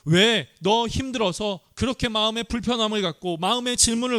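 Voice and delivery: a lightly voiced chiding God; voicing God's reproach. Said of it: "이렇게 책망하시는 것이 아니에요".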